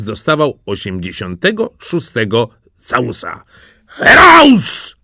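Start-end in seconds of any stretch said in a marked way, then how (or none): 3.9-5.0 very high, loud cry; furious emperor yelling; angry shout. A narrator's reading. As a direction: shout the order to get out. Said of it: "zawołał cesarz, bo był zły".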